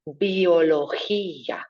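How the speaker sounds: biología slow, the g rasped from the throat, bio-lo-KHI-a; throaty g, slow. Shown as a demonstration. Teacher modelling biología, throaty g. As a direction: scrape the g in biología at the back. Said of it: "Coming into the back of the throat".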